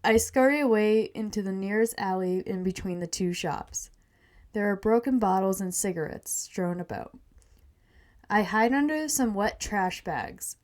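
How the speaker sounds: measured reading of a story; first-person tale, evenly told; story narration. A narrator's reading. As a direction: read it aloud like a storyteller. Reads her story aloud.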